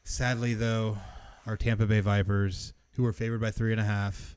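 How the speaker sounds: low, somber eulogy tone. Pretend. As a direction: mourn the team like at a funeral. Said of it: "I have to use my eulogy voice".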